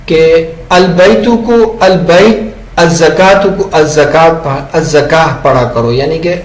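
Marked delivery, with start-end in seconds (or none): 0.7-2.8 البیت read al-bayt, the last letter silent; slow pausal al-bayt without an ending vowel; pause form. Shown as a demonstration. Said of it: "وقف کر کے پڑھنا ہے". 2.8-5.9 الزکاة read az-zakah, ending on a stopped h; pause form. Shown as a demonstration. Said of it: "وقف کر کے پڑھنا ہے".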